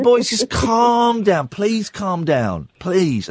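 slow, soothing plea; calming the boys. Retold or imitated. A dad calming his screaming boys, slow and soothing. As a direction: settle the kids down slowly. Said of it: "I'm going".

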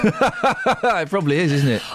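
laughing through it; amused chuckle. Real, not acted. Laughing at listener text.

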